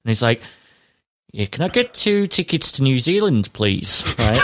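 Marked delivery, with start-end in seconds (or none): 1.3-4.0 put-on Australian accent. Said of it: "In an Australian accent".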